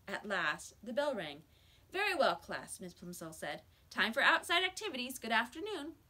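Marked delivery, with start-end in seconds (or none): 1.9-5.9 teacher voice. Acted. Teacher dismisses class.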